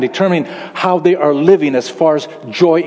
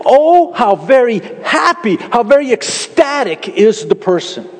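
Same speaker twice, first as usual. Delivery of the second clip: emphatic translation; 5 semitones higher than usual. Shown as a demonstration. Preacher reading the Hebrew with exultant emphasis. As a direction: savor each word of joy. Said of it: "a good way to translate it is".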